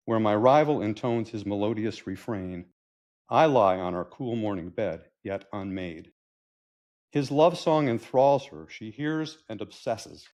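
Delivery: dramatic, measured verse reading; poem recital. Acted. Husband addressing the bird that rivals him, poetic recital.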